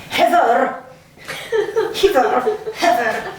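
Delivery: Heather called out in a Scottish accent. Shown as a demonstration. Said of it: "say it with a more Scottish accent".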